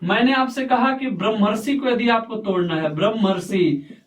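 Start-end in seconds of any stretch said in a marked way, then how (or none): 3.0-4.0 slow demo word. Shown as a demonstration. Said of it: "तो ब्रह्मर्षि को क्या लिखेंगे".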